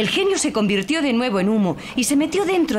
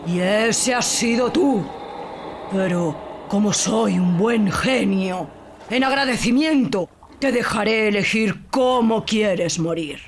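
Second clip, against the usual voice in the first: genie. Acted. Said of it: "explicó el genio".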